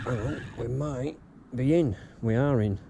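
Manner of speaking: thrilled, the fish has struck; excited. Real, not acted. Fish strikes while fishing.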